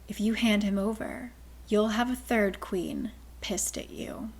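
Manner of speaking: slow, soft drawl. Acted. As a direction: drawl it out lazily. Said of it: "a female voice drawls".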